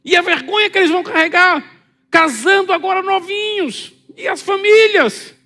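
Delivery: grito agudo e forte de aflição; pânico. Acted. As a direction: pergunte em desespero, bem alto. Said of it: "um pânico na entonação". (mãe em pânico pedindo ajuda ao filho)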